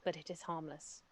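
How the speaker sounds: gentle riddling armor voice; pretty voice. Acted. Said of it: "in a pretty voice it says".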